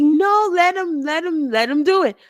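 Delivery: urging him on, replaying the moment; a fan's frustrated cry at the screen; upset pleading. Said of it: "I was like".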